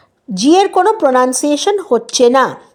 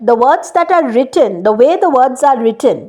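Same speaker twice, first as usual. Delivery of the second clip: slow deliberate explanation; much slower than usual. Shown as a demonstration. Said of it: "exactly that way it is not pronounced".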